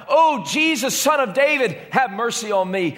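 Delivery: high, pleading call; blind man crying out. Acted. Blind Bartimaeus calling to Jesus from the roadside, pleading cry. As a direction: call out to Jesus over the crowd. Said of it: "he cried out".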